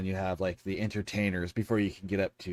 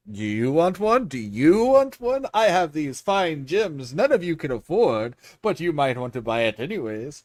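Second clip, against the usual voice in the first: boastful hawker; 5 semitones higher, 7 dB louder than usual. Retold or imitated. Halfling hawking gems.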